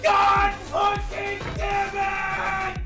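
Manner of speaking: drawn-out furious curse; berserk rage. Real, not acted. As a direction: stretch the curse out slowly. Player raging in game.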